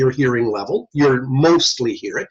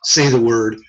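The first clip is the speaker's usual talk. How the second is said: tester reading test words; slower than usual. Shown as a demonstration. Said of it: "If I use single syllable words".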